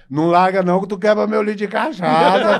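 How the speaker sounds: loud, high panicked yell; drunk's shout. Retold or imitated. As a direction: shout out to save the bottle. Bêbado grita pelo litro. (bêbado grita desesperado pra não quebrar o litro)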